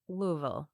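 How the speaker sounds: Louisville run together as two syllables, LOO-vul; local pronunciation. Shown as a demonstration. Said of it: "That's how we say it".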